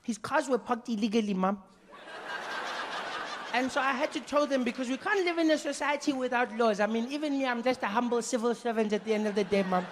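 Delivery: put-on a cheeky kid arguing like a lawyer; smart-mouthed kid. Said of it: "I said".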